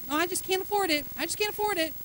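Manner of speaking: a touch of a sighing, humble-sounding whine; fake-humble complaining; mock self-pity. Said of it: "quit saying that".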